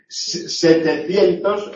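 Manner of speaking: setecientos very slowly, with the weight on cien; slow setecientos, land on cien; stress on cien. Shown as a demonstration. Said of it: "el acento está en cien".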